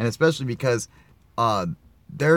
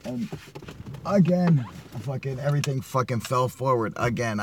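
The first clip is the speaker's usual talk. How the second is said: exasperated outburst; 3 semitones higher than usual. Real, not acted. Vlogger griping that his gear fell forward again, exasperated. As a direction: blurt it out, fed up.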